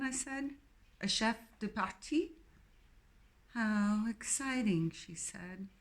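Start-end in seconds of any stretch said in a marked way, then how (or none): 1.0-4.9 put-on posh English accent. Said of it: "Jane's accent was reminiscent of the Queen".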